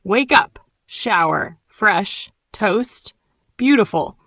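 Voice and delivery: each word set apart by a gap; slow word list. Shown as a demonstration. Teacher asks learners to repeat after her, slowly. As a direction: say each word separately for copying. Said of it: "Repeat after me slowly".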